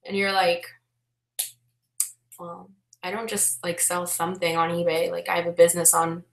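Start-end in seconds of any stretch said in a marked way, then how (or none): 2.4-6.2 muted correction. Retold or imitated. Imagined muted reply to awkward remark.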